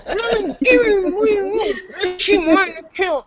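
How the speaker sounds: high, slow whining with a cry in it; mock the villain's whimpering; hammed-up whiny bad guy. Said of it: "he got so whiny at the end".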